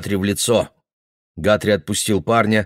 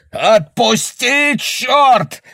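much higher, loud, slow; yell; 5 dB louder, much slower than usual. Acted. Father yelling at Guthrie, loud. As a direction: scream it out. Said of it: "орал Бекман".

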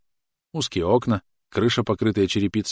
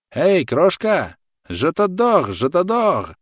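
loud call; 10 semitones higher, 6 dB louder, much slower than usual. A narrator's reading. Soldier calling to girl.

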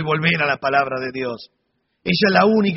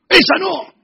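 imitated warning; 11 semitones higher, 5 dB louder than usual. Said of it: "me dijo".

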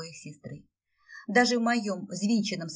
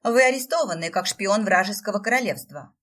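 stern arrest; 2 semitones higher, 8 dB louder than usual. A narrator's reading. Stefi arrests the prince.

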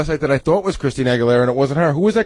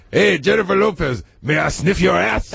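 puppet dog voice; slower than usual. Retold or imitated. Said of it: "he goes".

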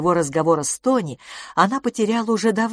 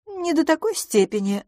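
cautious; 11 semitones higher than usual. Acted. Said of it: "осторожно сказала мисс Дюбари".

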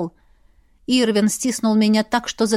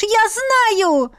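high, pleading I know; desperate cry; 11 semitones higher than usual. Acted. Heroine to Irvin, high desperate cry. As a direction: cry it out in despair. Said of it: "отчаянно закричала я".

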